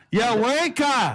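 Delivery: high, drawn-out mock-British insult; terrible British accent. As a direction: play up a bad British accent, slowly. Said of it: "Terrible accents".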